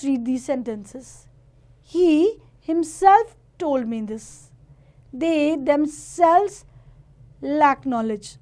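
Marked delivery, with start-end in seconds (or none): 1.8-4.5 "himself" stressed, drawn out slowly. Shown as a demonstration. Teacher reads an example of emphatic pronouns, stressing "himself". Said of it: "the emphasis on the same word". 5.1-8.4 "themselves" stressed, slow and deliberate. Shown as a demonstration. Teacher reads an example to children, stressing "themselves". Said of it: "the emphasis on the same word".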